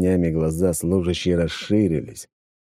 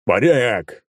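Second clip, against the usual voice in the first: roar; 4 semitones higher, 4 dB louder, slower than usual. A narrator's reading. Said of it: "проревел я".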